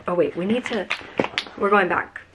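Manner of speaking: usual speaking voice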